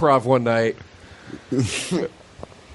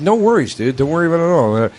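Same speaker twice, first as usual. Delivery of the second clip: breezy friend; 4 semitones higher, faster than usual. Retold or imitated. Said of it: "he's like".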